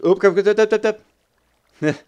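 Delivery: loud, high string of startled oops; panicked yelping. Real, not acted. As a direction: yelp repeatedly while dodging danger. Startled under attack in game.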